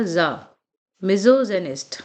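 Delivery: a lone "za", then मिज़ोजेनिस्ट with that z; "za" sound. Shown as a demonstration. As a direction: model मिज़ोजेनिस्ट as "mizo-ZE-nist" after isolating za. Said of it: "यहाँ पे जो sound आएगा". (पहले "ज़ा", फिर मिज़ोजेनिस्ट में "ज़" की आवाज़)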